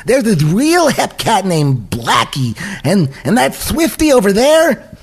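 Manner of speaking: high, eager Roger Rabbit voice; chirpy toon rabbit, way up high; cartoon rabbit voice. Roger voice continues.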